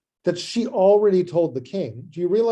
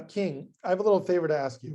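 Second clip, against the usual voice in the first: tentative, uneasy favor request; awkward hesitant ask. Acted. Esther nervously asking the king a favor, awkward and hesitant. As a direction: edge into the request, dreading it. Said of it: "That's a very awkward conversation to have".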